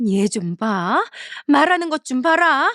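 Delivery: scandalized at her cheek; mother-in-law bristling at rude reply; outraged. Acted.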